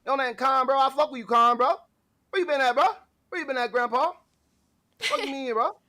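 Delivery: high-pitched put-on homeboy voice; hyped bro character. Puts on bro voice for viewer.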